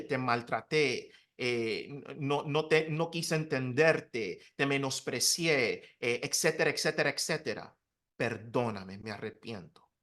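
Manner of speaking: a hushed, repentant plea, dropping almost to nothing; soft retold apology. (disculpa suave y contrita, casi en voz baja)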